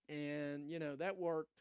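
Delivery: fighting off a sneeze; holding back a sneeze. Real, not acted. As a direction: talk while stifling a sneeze. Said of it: "I'm trying not to sneeze".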